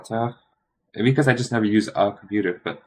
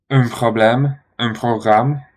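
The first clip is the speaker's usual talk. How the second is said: French accent; 3 semitones higher, 8 dB louder, much slower than usual. Shown as a demonstration. Switching to French words.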